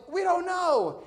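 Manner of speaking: high-pitched mock shout back; retold yelled reply. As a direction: imitate a customer calling back. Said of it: "someone yells".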